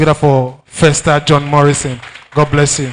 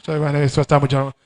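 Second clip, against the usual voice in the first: mock rush; 3 semitones lower, 5 dB quieter, faster than usual. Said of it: "Did you hear yourself?".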